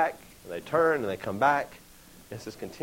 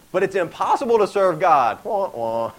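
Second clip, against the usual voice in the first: Debbie Downer; 5 semitones higher, 5 dB louder than usual. Acted. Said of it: "old Debbie Downer Joshua".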